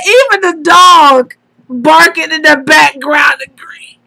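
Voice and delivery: blurting the punchline while cracking up; laughing to tears. Real, not acted. Friend delivering Miss Neek's punchline, laughing to tears. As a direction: quote it through tearful laughter. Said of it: "I'm crying".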